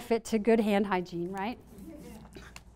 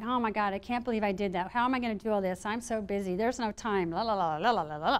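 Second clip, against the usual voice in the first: low, softer running chatter; lightly acted nagging voice in the head; inner dialogue; 3 semitones lower, 6 dB quieter than usual. Speaker mimics the audience's negative inner dialogue, muttered worry trailing into la-la babble. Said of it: "The inner dialogue is often like".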